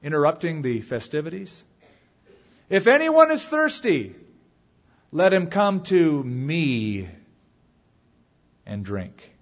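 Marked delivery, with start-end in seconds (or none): 2.7-9.3 Jesus crying out. Acted. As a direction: cry out over a noisy crowd, then draw it out. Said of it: "there's a guy yelling in the background".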